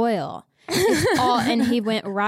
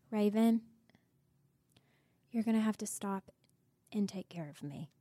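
imitated whispered plea; 11 dB quieter than usual. Partner asking Raven for care, imitated weak whisper. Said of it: "And he was like".

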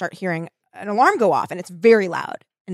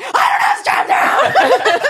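high, slow, loud outburst; screaming; 7 dB louder, much slower than usual. Retold or imitated. Fed-up kid at the troop leader, screaming in reenactment. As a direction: scream it out, drawn out and comic. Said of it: "I started screaming".

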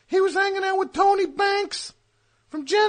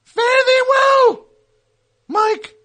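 slow, loud, higher grand goodbye; theatrical farewell; 6 semitones higher, 6 dB louder, slower than usual. Acted. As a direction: bid farewell like a ham actor.

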